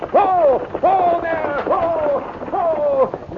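slow, drawn-out high whoa to the horses; calling whoa. Acted. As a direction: haul the team to a stop with your voice. Reining in the horses.

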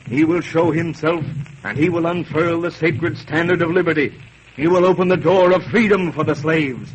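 reading aloud. Acted. Toussaint reading the prophecy to his wife, building grandly. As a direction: read it like a prophecy rising. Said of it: "Sounds different from talking, reading does".

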